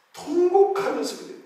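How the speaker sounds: 통곡하면서 pitched high and wailing; preacher stresses 통곡 to the congregation. Shown as a demonstration. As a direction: lift 통곡하면서 up sharply. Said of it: "통곡하면서 기도했다".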